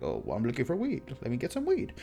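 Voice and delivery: lightly mimicking himself asking; fast, sheepish request; his own nervous self. Retelling how he asked the lady for weed, a touch sheepish. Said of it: "that's exactly how I sounded".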